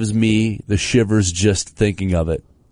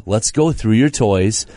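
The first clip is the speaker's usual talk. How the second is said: coaxing parent; 3 semitones lower than usual. Retold or imitated. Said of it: "we try the".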